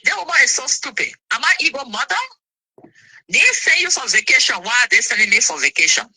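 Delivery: mildly hammed-up outrage; indignant rant. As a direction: vent at how stupid she is. Retelling her angry reaction.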